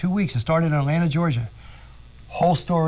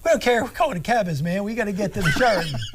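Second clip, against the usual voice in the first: fast, higher, worked-up protest; indignant quote; 6 semitones higher, faster than usual. Retold or imitated. Retelling Lenny's protest to the driver, fast and excited. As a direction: rattle it off like you can't believe it.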